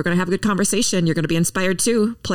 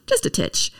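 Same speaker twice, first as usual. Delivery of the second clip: playful whisper. Real, not acted. Teasing about a naughty quiz.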